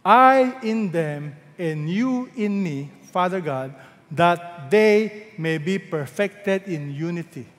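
slow, drawn-out prayer; solemn, measured scripture prayer; prayer of Jesus. Acted. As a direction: pray it to the Father, stretching key words. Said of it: "He prayed to God the Father".

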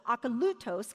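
Akalutos with the LU stressed; stress on third syllable. Shown as a demonstration. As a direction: lean on LU in Akalutos. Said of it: "have the accent on the third syllable".

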